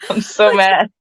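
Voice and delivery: yawning. Real, not acted. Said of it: "I'm so sorry about yawning".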